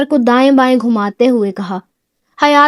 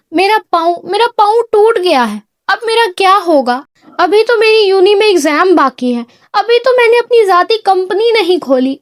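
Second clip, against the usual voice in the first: high, tearful lament; crying wail; 6 semitones higher, faster than usual. A narrator's reading. Injured girl wailing to the man about her foot, tearful. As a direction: wail like the world has ended. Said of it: "حیات روتے ہوئے کہا".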